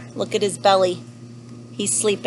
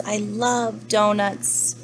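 slow, drawn-out declaration; savouring; much slower than usual. Acted. Happy lemur tells of loving donuts, savouring. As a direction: stretch it out lovingly.

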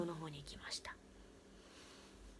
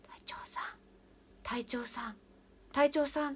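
ghostly voice swelling; 6 semitones higher than usual. Retold or imitated. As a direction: let the ghost's call grow from a whisper to a cry. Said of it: "ボソボソボソ言ってた声が".

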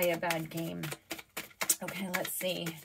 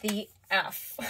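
slow, louder, drawn-out disbelief; exasperated disbelief; 6 dB louder, slower than usual. Acted. Reader voicing the listener who is stuck, exasperated. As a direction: stretch it out word by word, baffled. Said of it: "you're just like".

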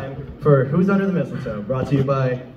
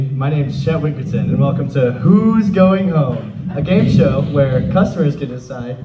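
game show host; 4 dB louder than usual. Acted. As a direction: sell it like a cheesy TV host.

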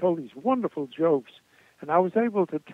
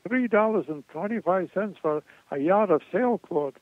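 imitating a Jewish comic complaining in a Jewish accent; 3 semitones higher than usual. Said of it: "With a Jewish accent".

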